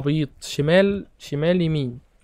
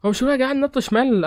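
surprised disbelief; 8 semitones higher than usual. Real, not acted. Confused after losing the round.

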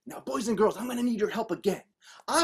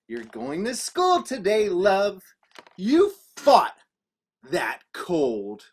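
measured, emphatic mother, with pauses; lightly voiced bold mother; 2 semitones lower, slower than usual. Mommy to child after the cold, mildly bold. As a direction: make each phrase a firm announcement. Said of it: "said very bold".

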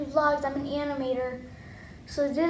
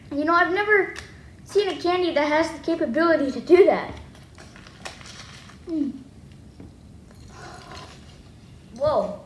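mouth full. Real, not acted. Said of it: "I can barely talk with these things in my mouth".

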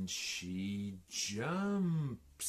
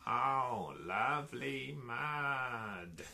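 higher, drawn-out duck voice; duck character; 5 semitones higher, 4 dB louder than usual. A narrator's reading. Storyteller voices the duck admiring mud, lightly voiced duck. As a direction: lift the pitch lightly for the duck. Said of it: "says the duck".

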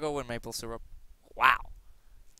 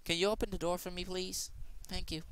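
polite request; 4 semitones higher, 7 dB quieter than usual. Retold or imitated.

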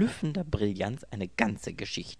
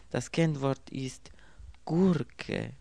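whispered password; 6 semitones higher, slower than usual. A narrator's reading. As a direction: hush it, then land on the word Gurke. Secret password on phone.

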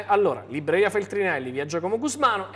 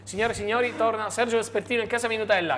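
announcer shout; 3 semitones higher than usual. Acted. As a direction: call the guest in like a ringmaster. Presenter announces a returning guest.

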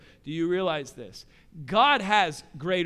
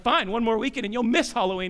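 frustrated dad; 2 semitones higher, faster than usual. Retold or imitated. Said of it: "I get frustrated".

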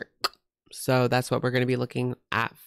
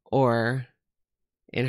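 whispering. Real, not acted. Aside about a YouTuber's boyfriend.

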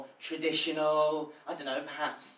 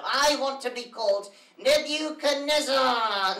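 talking with mouth closed; 9 semitones higher, 7 dB louder, slower than usual. Acted. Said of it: "difficult for me to say without moving my lips".

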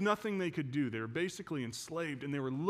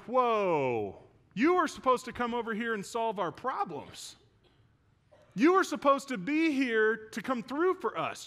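voicing the disciples; 6 semitones higher than usual. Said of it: "And they're going".

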